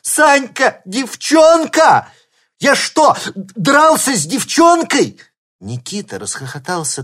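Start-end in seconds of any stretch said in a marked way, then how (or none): 0.0-5.2 drawn-out high howl, much louder; howling in horror. A narrator's reading. Artyom horrified he fought a girl, howling. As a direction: wail it out, appalled. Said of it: "завопил он".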